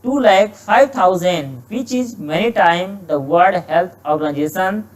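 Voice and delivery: slow, careful reading of an exam sentence; slow dictation reading. Shown as a demonstration. Teacher slowly reading a test sentence to students, measured dictation pace. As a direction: read each word out slowly for the class. Teacher reads passage aloud.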